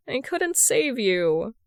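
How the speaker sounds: slow, mildly broken confession; a touch of heartbreak, said slowly; understated broken voice, slow. Acted. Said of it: "hoarse voice whispers out, sounding broken".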